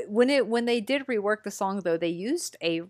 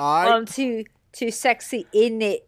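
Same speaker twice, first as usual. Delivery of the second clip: louder, higher mock British; mock British accent; 4 semitones higher, 5 dB louder, slower than usual. Topping the co-host's British bit, louder higher mock British accent. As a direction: ham it up like a cheeky Brit. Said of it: "impression of a British person".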